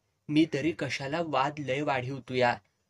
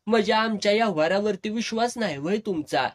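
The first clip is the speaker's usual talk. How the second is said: snapping; 5 semitones higher, faster than usual. Retold or imitated. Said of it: "Gulabrao खेकसायचा".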